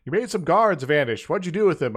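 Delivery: mock-stern starship captain. Voicing Kirk, loud quote.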